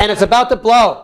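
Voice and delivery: restrained first take of anger; modelled pent-up anger. Shown as a demonstration. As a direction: hold the pressure in as you say it. First take, then pushed harder.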